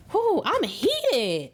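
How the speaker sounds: slow exhale, fired-up whew; worked up. Real, not acted. Reader to viewers, admitting she's fired up: heated sigh. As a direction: let the heat show, then breathe it out. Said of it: "I just got heated about that topic".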